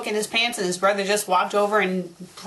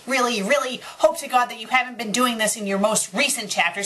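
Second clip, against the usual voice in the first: ordinary talk, nothing marked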